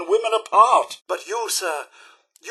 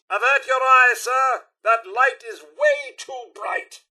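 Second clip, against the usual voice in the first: raised, urgent butler cry; alarmed warning; 5 semitones higher than usual. Acted. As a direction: call out a warning about the glare, pitched up. Warns sir about blinding light.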